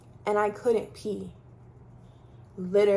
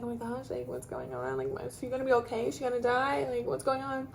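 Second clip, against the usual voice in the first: crying mom; 3 semitones higher, 4 dB quieter than usual. Retold or imitated. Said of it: "She was just crying".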